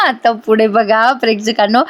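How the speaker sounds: laughing through आता पुढे बघा प्रेक्षकांनो. Real, not acted. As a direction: chuckle into the line to the viewers.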